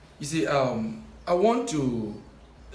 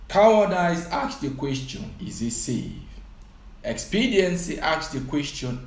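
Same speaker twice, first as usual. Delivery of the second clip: rising oratory, louder on each claim; quoting a speech; 4 dB louder than usual. Acted. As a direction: deliver it like a sermon. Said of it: "He says, and I quote".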